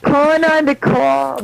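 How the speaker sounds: slow, stretched mock Massachusetts "cawb"; Massachusetts accent. Co-host echoing the guest's accent, mock Massachusetts accent. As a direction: imitate a Massachusetts accent, drawing out COB. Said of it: "that's where Massachusetts talking".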